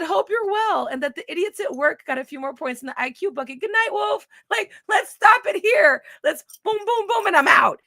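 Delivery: a hammed-up dismissive sign-off. Shown as a demonstration. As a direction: wave them off fast and bright. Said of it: "you know how dismissive this is".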